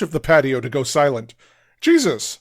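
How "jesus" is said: high startled shout. Acted. Girlfriend shouts as she shoves back, startled. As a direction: recoil with a shout. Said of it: "shouts Kitten".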